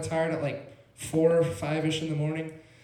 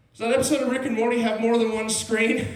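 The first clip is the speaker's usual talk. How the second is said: dazed friend; 6 semitones higher, 6 dB louder than usual. Retold or imitated. Tripping friend asks, bewildered.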